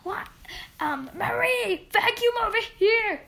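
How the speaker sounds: high, loud call across the house; family calling out. Retold or imitated. Family member calling Marie to vacuum, loud high call. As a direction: yell for Marie to come vacuum. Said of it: "my family won't come over and say".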